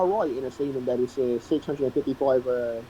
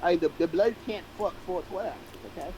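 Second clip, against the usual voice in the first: put-on British accent; 5 dB quieter than usual. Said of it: "He's doing an accent".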